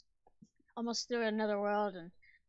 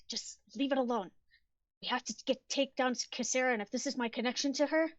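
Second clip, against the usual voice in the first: louder, higher, irritated retort; raised, insistent voice with annoyance; annoyed snap; 5 semitones higher, 6 dB louder than usual. Acted. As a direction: snap back at a friend who's pushing. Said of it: "gets a little annoyed and snaps".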